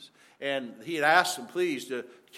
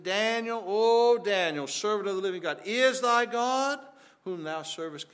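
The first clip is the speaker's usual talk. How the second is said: lamentable cry; 5 semitones higher, 3 dB louder than usual. Retold or imitated. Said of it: "with a lamentable voice".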